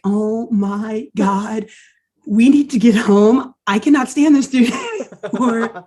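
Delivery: fed-up groan. Retold or imitated. Teammates fed up with Chip, mock exasperation. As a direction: imitate teammates sick of their friend, half laughing. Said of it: "Gadget and Dale are like".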